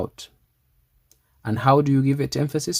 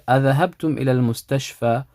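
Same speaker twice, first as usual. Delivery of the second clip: quick read; much faster than usual. Shown as a demonstration. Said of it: "Which one would I say?".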